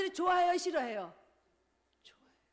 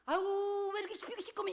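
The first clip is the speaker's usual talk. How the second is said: a lightly voiced, higher exclamation of mock disgust; blunt tactless remark; 5 semitones higher, 4 dB louder than usual. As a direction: tease as the wrong thing to say. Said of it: "이래요?". (눈치 없이 던지는 가벼운 핀잔 흉내)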